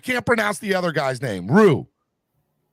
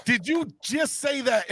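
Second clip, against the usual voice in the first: outraged disbelief; 11 semitones higher than usual. Real, not acted. Fan reacting to a player's postgame trash talk, incredulous. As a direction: shriek it in disbelief.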